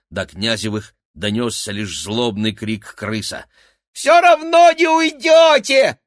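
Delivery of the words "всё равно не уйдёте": very high, loud, slow shriek; yelling. A narrator's reading. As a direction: scream the threat after them. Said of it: "вопил он".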